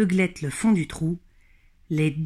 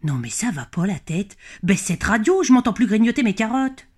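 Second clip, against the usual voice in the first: acted exasperation, climbing in pitch; complaining rabbit; 3 semitones higher than usual. Grey rabbit complaining about his neighbour's radio, exasperated. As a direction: build from a grumble to a higher protest. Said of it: "ce fut au tour de Monsieur Grisou de se plaindre".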